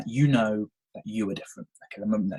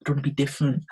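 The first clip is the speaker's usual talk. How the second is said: put-on whiny child; 5 semitones higher than usual. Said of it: "And I was like".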